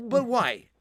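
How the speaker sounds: usual speaking voice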